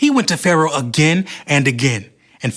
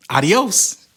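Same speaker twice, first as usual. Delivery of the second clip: Spanish adios; 4 semitones higher than usual. Acted. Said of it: "Did you know Cameron spoke Spanish".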